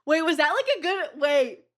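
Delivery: high, loud Yoshi voice; Yoshi impression. Shown as a demonstration. Retrying the Yoshi impression, high and loud. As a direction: squeak it out as Yoshi. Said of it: "The first one was really good".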